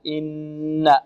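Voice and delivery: إن with a long nasal hum on the doubled n; إن, doubled n fully nasalized; full ghunna. Shown as a demonstration. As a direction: hold the ن of إن through the nose. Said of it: "وهي غنة الأكمل".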